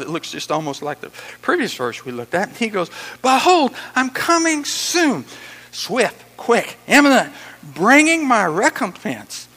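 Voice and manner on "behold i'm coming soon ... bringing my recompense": high, loud, drawn-out proclamation; excited shout. Acted. Preacher voicing Jesus beside himself with excitement, shouting. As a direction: jump out with it, excited and ringing. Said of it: "He shouts this out".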